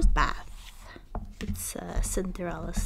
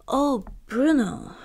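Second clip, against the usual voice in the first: higher, louder, slow fond call; gentle Cinderella; 5 semitones higher, 6 dB louder, slower than usual. Acted. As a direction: sigh it fondly to the dog. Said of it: "she said".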